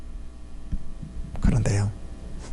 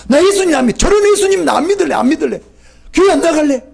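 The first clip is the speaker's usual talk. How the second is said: indignant believer; 7 semitones higher than usual. Retold or imitated. Preacher voicing a believer who quits church, indignant and higher.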